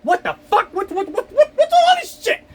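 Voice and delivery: high, incredulous squeal breaking into a laugh; baffled outburst. Retold or imitated. Driver mocks his own confusion at app route, high laughing disbelief. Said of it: "It's like".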